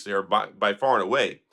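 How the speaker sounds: ordinary talk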